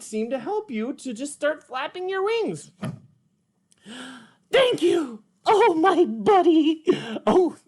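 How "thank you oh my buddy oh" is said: high, bright puppet character, eager; higher cartoon sidekick voice, eager; Petrie puppet voice. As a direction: play the little pterodactyl, keen to try.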